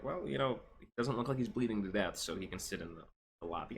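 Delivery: casual shrug, trailing off softly; offhand, dwindling to a soft mumble; mock indifference. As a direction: imitate unconcerned staff brushing it off. Imitates unconcerned clinic staff.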